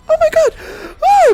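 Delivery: very high, loud terrified scream; panicked shriek. Retold or imitated. Panicking at the exploding oil fire, terrified shriek.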